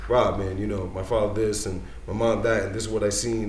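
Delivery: soft sob-story plea; mock pleading. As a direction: lay on a sad story quietly.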